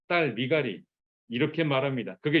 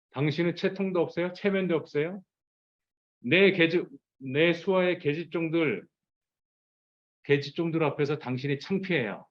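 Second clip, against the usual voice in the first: reproachful, higher voice; scolding; 4 semitones higher than usual. Retold or imitated. Michal reproaching her husband David, indignant. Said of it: "지금 다윗을 나무라는 거예요".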